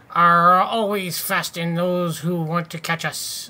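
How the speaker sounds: lightly put-on pirate growl, barely held; a half-hearted old sea dog boasting; bad pirate voice. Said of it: "I can't do a fucking pirate voice".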